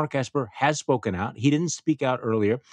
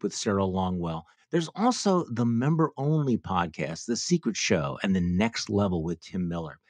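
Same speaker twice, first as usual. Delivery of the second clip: ad read. Acted. Reads a sponsor ad.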